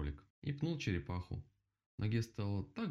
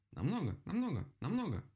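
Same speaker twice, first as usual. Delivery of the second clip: high, repetitive calling; insistent cry; 9 semitones higher than usual. A narrator's reading. Woodpecker keeps knocking as he answers, high insistent cry. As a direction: cry each word out high. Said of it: "прокричал дятел, продолжая стучать".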